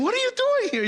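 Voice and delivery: very high, surprised question; as if shocked to see the teacher there; astonished students. Retold or imitated. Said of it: "Y me dicen".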